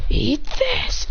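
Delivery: mock battle cry; attacking battle cry. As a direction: throw it out like a fighting move. Character attacks in story.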